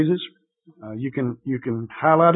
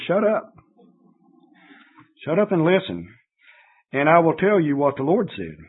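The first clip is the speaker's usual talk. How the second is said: angry rebuke; 2 semitones higher than usual. Retold or imitated. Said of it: "similar to saying".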